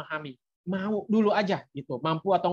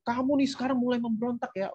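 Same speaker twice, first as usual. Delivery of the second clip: higher-pitched mock parental scolding; mildly heated, accusing imitation; angry retort; 5 semitones higher than usual. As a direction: act out a parent getting angry back. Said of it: "Jangan kita ikut marah balik".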